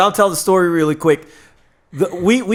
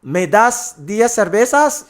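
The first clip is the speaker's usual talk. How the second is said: put-on American accent Spanish; 4 semitones higher, slower than usual. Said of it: "Richard said".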